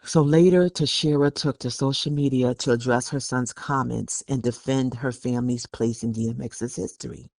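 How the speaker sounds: measured news-report delivery; news read. Acted. Co-host reading a report on the family dispute, news read. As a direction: read the article out evenly.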